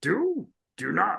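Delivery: soft, creaky sage voice with swooping pitch. Offering to show it off real quick; Yoda voice. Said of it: "I can do Yoda's voice".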